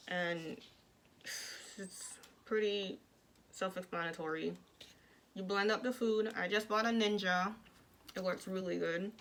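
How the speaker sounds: speaking with jaw wired shut; words pushed through clenched teeth; talking through teeth. Real, not acted. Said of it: "I talk through my teeth".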